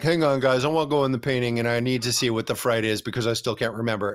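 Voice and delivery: a hint of a confused kid asking to go back; voicing Michael. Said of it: "and now Michael's like".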